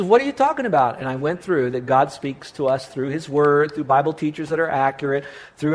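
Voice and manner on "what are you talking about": surprised question. Retold or imitated. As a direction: act out the friend's puzzled reply. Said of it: "And he says".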